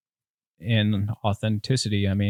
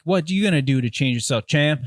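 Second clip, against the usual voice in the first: mock fitness guru; 9 semitones higher than usual. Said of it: "everybody's a guru".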